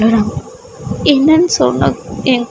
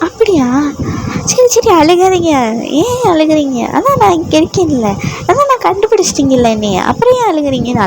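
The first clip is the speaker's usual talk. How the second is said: put-on higher, gentle soothing girl; comforting heroine; 4 semitones higher than usual. The heroine soothes her crying husband in a raised, gentle voice. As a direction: coax him to stop crying.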